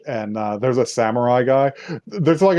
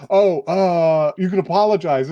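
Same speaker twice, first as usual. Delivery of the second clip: higher timid offering; timid suggestion; 6 semitones higher than usual. Retold or imitated. Part-timer Midori suggests apologizing, higher timid voice. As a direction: suggest it meekly, hammed up. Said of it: "It's just like".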